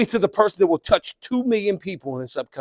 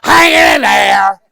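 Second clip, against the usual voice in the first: slow, loud, mock-weepy; glum coworker again; 8 dB louder, slower than usual. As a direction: stretch it out like a defeated whiner. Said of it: "Bad attitude".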